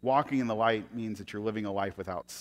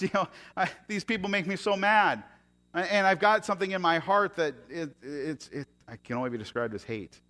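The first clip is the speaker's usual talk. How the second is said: louder, higher mock David venting; David crying out; 8 semitones higher, 5 dB louder than usual. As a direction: voice his anger, lightly played. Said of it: "he's crying out".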